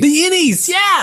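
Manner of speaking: high, loud cheer; a joyous shout; excited cheer. Real, not acted. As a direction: cheer the Innies.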